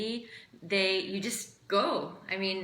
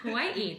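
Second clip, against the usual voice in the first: Hawaii pitched higher, emphasis on the final I; Hawaii, weight on the closing vowel; stress on last I; 4 semitones higher than usual. Shown as a demonstration. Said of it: "You put the emphasis on the".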